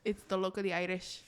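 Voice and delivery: understated attempt at an Irish accent; shy, light Irish lilt. Shown as a demonstration. Host takes a turn with everyone looking, light Irish accent. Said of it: "I'll try it".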